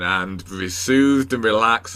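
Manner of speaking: slow, calm meditation voice; soothing slow voice. Retold or imitated. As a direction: lull them gently. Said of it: "they'd be going".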